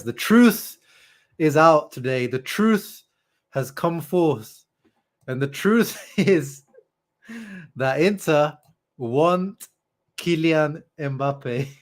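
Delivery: high, slow mock announcement; dramatic reveal. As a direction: proclaim it like breaking news.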